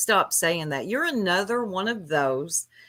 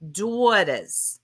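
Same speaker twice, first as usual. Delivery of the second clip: slow, imitated New York accent on "daughters"; mock East Coast gangster. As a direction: draw out "daughters" like a Boston mobster. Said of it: "You are nowhere near from Boston".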